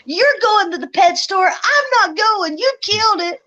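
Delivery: retold anger. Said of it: "I was like".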